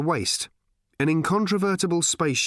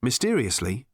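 usual speaking voice

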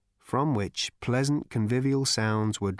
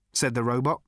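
ordinary talk

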